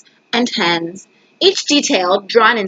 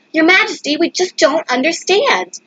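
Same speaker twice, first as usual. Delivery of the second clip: baffled messenger; 6 semitones higher than usual. Acted. Messenger reports to king, baffled.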